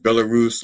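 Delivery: Belarus said to rhyme with walrus; mispronounced Belarus. Retold or imitated. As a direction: say Belarus like walrus, weak last syllable. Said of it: "like I would pronounce walrus".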